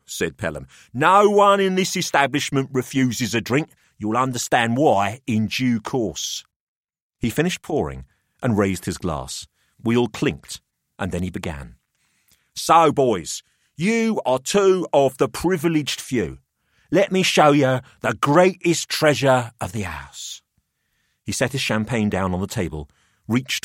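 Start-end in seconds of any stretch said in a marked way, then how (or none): 0.9-6.4 put-on higher, smug older host; a wry businessman weighing up the boys; Pelham's voice. 12.5-20.4 put-on higher, smug older host; a wry businessman weighing up the boys; Pelham's voice.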